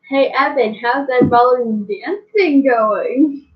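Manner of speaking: mock friendly small talk. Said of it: "and just be like".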